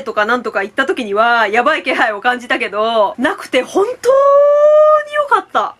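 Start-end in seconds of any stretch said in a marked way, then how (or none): 3.6-5.8 "本当に良かった" drawn out slow, higher and louder; heartfelt relief. Real, not acted. Fan gushing relief to viewers, slow and emphatic. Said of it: "relief repeated, stronger".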